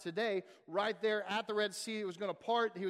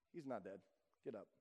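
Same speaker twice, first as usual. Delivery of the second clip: put-on softer, calm word to the boy; gentle command; 10 semitones lower, 12 dB quieter than usual. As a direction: speak it quietly, sure and gentle. Jesus gently raising the boy.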